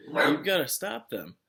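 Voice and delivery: teacher urging the sheriff; urgent plea. A narrator's reading. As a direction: insist they must act now. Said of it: "urged Catherine".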